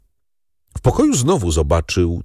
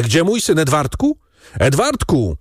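higher, alarmed calling, volume restrained; sudden cry; 7 semitones higher than usual. A narrator's reading. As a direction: cry out for a missing son. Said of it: "krzyknął nagle".

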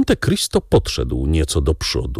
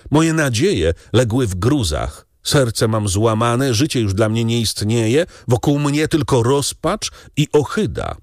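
higher-pitched, agitated desperation; despairing outburst; 6 semitones higher than usual. A narrator's reading. Heartbroken young man begging the count to let him die, agitated despair. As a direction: plead your case as someone whose calm has broken. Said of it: "wybuchnął Morel, rezygnując z pozornego spokoju".

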